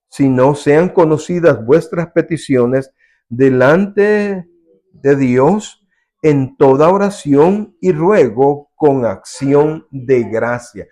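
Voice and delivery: slow, weighty verse reading; solemn scripture reading. Acted. Preacher reads Philippians to the congregation, slow and solemn. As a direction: read it out slowly like holy writ. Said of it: "reads Bible verse".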